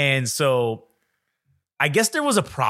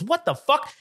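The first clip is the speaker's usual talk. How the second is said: high-pitched mock outrage; startled yelling man; 12 semitones higher, slower than usual. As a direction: imitate a man's shocked outburst. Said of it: "What are you fucking yelling about".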